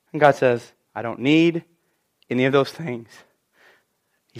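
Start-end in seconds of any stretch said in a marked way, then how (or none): 0.9-3.1 low, soft voice of God; hushed, unhurried assurance; calm divine reply. Acted. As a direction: answer the fears quietly and low. Voices God calmly answering fears.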